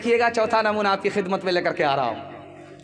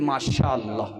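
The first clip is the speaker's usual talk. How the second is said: dreamy daughter; 7 semitones lower than usual. Acted. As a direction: savour the blessing. Daughter praises in-laws.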